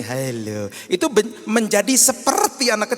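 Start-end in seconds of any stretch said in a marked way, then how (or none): 0.0-0.7 put-on talking to a small child. Shown as a demonstration. Pastor showing how we greet small children, sing-song. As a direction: greet a toddler gently. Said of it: "Kalau ngomong sama anak kecil begini".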